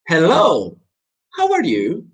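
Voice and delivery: "how are you" high with a rise at the end; high greeting, lifted like a question; greet, then lift the final "you"; different intonation demo. Shown as a demonstration. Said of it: "decirlo de formas diferentes".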